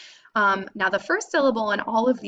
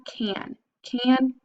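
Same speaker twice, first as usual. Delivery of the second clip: slow sounding out; 3 semitones higher than usual. Shown as a demonstration. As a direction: pull out can then land it. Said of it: "I'm covering up this syllable".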